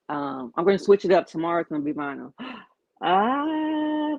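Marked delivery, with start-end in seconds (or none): 3.0-4.2 startled cry. Real, not acted. Dog does something mid-stream.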